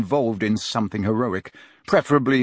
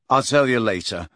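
mildly curt brush-off. Acted. Harry puts off his friends' questions, curtly. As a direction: cut the question short, a touch brusque. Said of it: "said Harry curtly".

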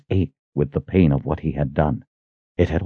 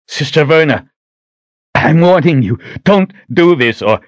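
strained warning; 9 semitones higher, 4 dB louder than usual. Acted. Richard warns her in pain.

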